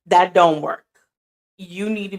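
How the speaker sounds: firm telling-off. Retold or imitated. Scolding friend in retold chat.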